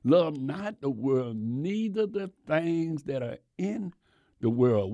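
slow, measured quoting of the verse; slow scripture reading. Shown as a demonstration. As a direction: read the verse deliberately to the congregation. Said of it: "the scripture where it said".

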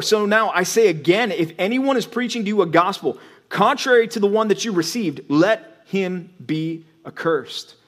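steady, weighty Bible reading; reading the text to the congregation, solemn and firm; scripture reading. Acted. Reads Paul's letter.

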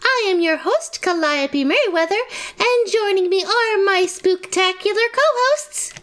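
upbeat radio host intro. Acted. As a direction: welcome listeners like a radio host.

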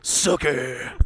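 drawn-out Southern reply; Southern accent character. Acted. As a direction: answer her in a Southern drawl. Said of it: "more like a Charleston Southern accent".

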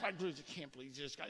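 low, fast grumble under the breath; quiet, rapid-fire complaining to yourself; muttering. Shown as a demonstration. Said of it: "that's a muttering".

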